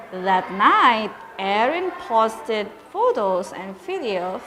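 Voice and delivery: lively storybook narration for pupils; reading to children. A narrator's reading. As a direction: read it aloud like a teacher to her class. Teacher reads story to pupils.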